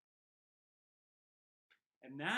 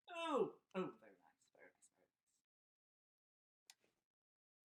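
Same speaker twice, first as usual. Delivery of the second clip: puppet voice; 3 semitones lower than usual. Pretend. Puppet answers child.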